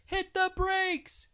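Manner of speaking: high, drawn-out loud yell. A narrator's reading. Daddy calling to his sprinting kid to stop, slow loud yell. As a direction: call out urgently to a runner far off. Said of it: "I heard him yell".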